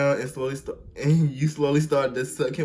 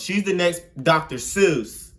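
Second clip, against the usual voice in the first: higher, louder, slow declaration; hype praise; 4 semitones higher, 5 dB louder than usual. Real, not acted. Hyping the writer to viewers, loud slow proclamation. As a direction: crown her like a champion.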